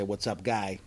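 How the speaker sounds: put-on lightly done Charlestown Boston accent, casual; a mild Charlestown Boston accent, offhand; Charlestown Boston greeting. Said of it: "In Charlestown, say".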